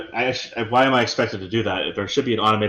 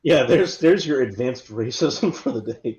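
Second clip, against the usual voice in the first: laughing. Real, not acted. Laughing at the joke.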